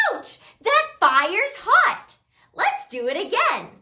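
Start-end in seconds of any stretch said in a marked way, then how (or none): 0.1-2.2 high, playful ouch, drawn out; pretend burnt yelp. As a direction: react to make-believe fire, hammed up for kids. Pretends dragon fire burns.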